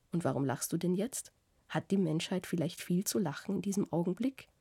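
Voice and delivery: a touch of teasing indignation, pitch climbing on questions; mock-outraged questions, half-playful; lightly voiced Iwan lecturing. Iwan teases the narrator about suffering for humanity, mildly mocking.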